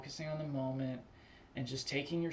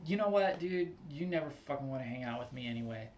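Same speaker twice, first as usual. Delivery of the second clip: mildly heated retort, rushing to the end; a little angry. Acted. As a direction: act out snapping back at a friend. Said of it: "a little bit angry".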